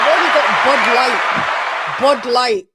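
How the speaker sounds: loud, fast put-on Irish accent. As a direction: bellow it in a thick Irish accent. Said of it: "That's a good Irish accent".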